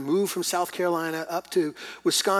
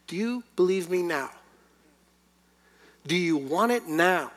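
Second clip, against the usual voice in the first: slow, weighty questions, building louder; God asking; 3 semitones higher, 4 dB louder than usual. Acted. Preacher voicing God to the church, slow building challenge. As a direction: let God's challenge land slowly.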